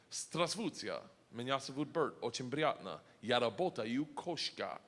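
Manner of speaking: halting, rehearsed Russian sentence; beginner's Russian. Acted. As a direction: recite clumsy learner's Russian. Recites his planned beginner Russian sentence.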